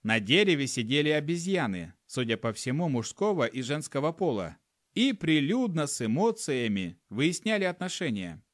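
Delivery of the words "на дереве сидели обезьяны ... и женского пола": ordinary delivery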